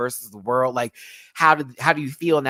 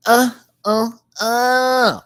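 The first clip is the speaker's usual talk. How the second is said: much higher, louder excited squeal; 12 semitones higher, 10 dB louder, much slower than usual. Real, not acted. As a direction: squeal with delight. Excited swooning reaction.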